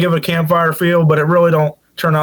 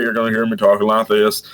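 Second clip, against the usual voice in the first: deep phone voice; 6 semitones lower than usual. Shown as a demonstration. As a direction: voice dropped low. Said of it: "if you ever call me on the phone".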